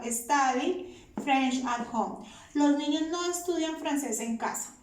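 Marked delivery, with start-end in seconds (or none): 0.0-2.3 slow, deliberate model phrase; slow dictation. Shown as a demonstration. Teacher showing the negative form to students, slowly. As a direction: lay it out slowly for the class. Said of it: "Verbo en su forma infinitiva".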